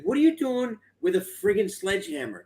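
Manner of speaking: high, laughing incredulous question; laughing disbelief. Retold or imitated. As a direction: quote Sal's amused shock. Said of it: "Sal responds. He's like".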